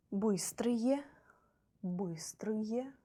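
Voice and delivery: whispered model word. Shown as a demonstration. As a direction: whisper быстрые. Teacher models plural ending.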